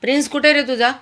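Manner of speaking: calling the dog. Real, not acted. Owner calling to her dog.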